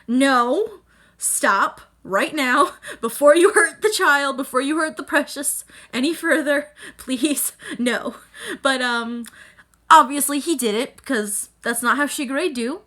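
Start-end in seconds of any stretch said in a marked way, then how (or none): 0.1-8.1 louder, laughing pleas of no and stop; mock scream at screen. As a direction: yell at the screen half laughing. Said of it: "I screamed at my computer".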